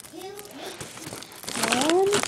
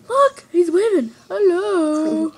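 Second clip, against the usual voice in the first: high, loud excited call-out; 4 semitones higher, 5 dB louder, much slower than usual. Real, not acted. Girl points out a man waving on screen, excited.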